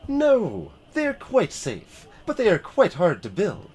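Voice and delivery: high proud lady pilot. Acted. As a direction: lift the voice well up. Pilot answers, voiced character.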